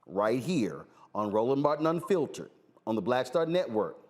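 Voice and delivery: ordinary delivery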